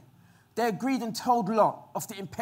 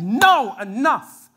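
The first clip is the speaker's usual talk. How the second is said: loud final no; divine command; 8 dB louder, much slower than usual. Retold or imitated. God stepping in against the men, loud command. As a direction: put an end to it. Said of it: "God stepped in and said".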